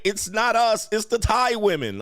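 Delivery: high-pitched mock protest; imitated woman insisting, pitched well up; imitated defensive woman. Voices woman blaming other Asian women.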